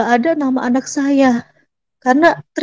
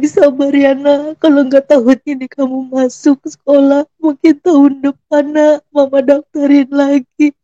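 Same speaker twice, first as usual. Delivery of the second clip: tearful comforting; 2 semitones higher than usual. Retold or imitated. Heartbroken mother comforting child, retold.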